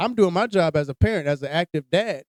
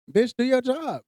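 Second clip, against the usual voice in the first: exasperated snap; 7 semitones higher than usual. Real, not acted. Angry rant at teacher.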